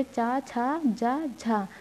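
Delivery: चा, छा, जा, झा said softly one by one; teacher quietly sounding out palatal letters; quiet palatal demo. Shown as a demonstration. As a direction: softly model चा छा जा झा with tongue on palate. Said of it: "आप लोग इतने शब्द बोलिए".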